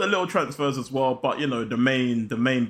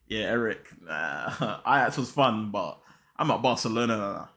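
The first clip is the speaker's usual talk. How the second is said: Frankie; 4 semitones lower, 4 dB quieter than usual. Acted. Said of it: "Frankie said".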